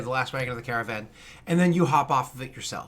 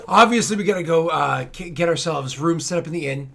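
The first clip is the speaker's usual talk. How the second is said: hearty companion; 2 semitones higher, 6 dB louder than usual. Acted. Companion claps shoulder, makes plans.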